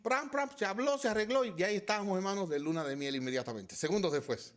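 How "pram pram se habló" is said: mock quick-fix sound.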